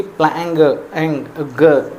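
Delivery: प्लैंग, एंग, ग broken out to expose a hard g after the nasal; ग as a separate hard g after एंग; demonstrating the G sound. Shown as a demonstration. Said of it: "ऐसा sound है उसमें".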